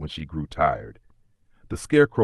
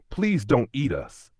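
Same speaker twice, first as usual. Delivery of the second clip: higher, slow frightened plea; pleading cry; 7 semitones higher than usual. A narrator's reading. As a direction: beg the lion not to eat them. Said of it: "Ellie cried".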